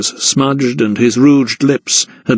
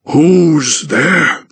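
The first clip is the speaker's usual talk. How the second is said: voiced youth, wary call; crookback calling out; 4 semitones higher than usual. A narrator's reading. Crookback to the intruder, wary call. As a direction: challenge the stranger at the door. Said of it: "he repeated".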